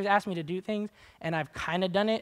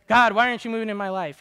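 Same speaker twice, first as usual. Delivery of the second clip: whiny mock complaint; 3 semitones higher, 9 dB louder, faster than usual. Mocking complainer's prayer.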